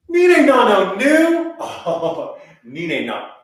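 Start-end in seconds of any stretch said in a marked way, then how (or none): 0.1-1.6 much higher, louder raging vowels; hammed-up furious ni ne na; mock rage. Shown as a demonstration. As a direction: rage at someone using only vowels. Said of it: "there's rage".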